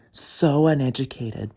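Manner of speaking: stretched, loud, spaced out; slow scornful repeat; slow emphatic repeat. Real, not acted. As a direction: drag out so uneducated with a heavy so. Repeated slowly.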